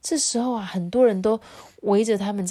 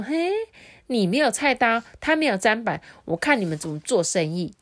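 a sly little fox crowing over its prank; smug fox taunt; 6 semitones higher than usual. Acted. Fox spirit taunting the brothers who lost their tools, smug and gleeful.

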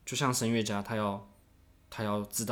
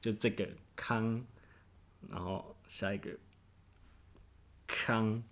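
slow beats; 5 dB quieter, slower than usual. Shown as a demonstration. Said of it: "非常的慢".

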